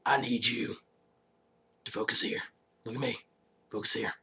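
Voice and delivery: hushed, half-whispered urging; urgent hush. Retold or imitated. Rick urging Daryl to focus, in a hushed voice.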